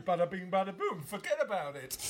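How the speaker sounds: playful mock New York accent; lightly hammed New York accent. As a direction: lay on a jokey New Yorker. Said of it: "A very New Yorkie".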